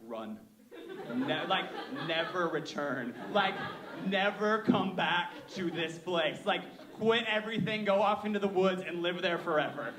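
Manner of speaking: laughing, half-mock panic telling himself to flee; a speaker recalling his truck crash mock-pleads to run; panicked inner voice. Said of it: "I had this moment of, like".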